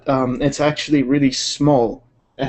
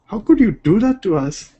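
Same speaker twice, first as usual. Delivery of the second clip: higher-pitched, laughing mock protest; mock outraged Beijingers; 7 semitones higher than usual. Streamer teasingly voices offended Beijing people, mock outraged. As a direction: play wounded locals, barely holding the laugh. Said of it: "Beijing people".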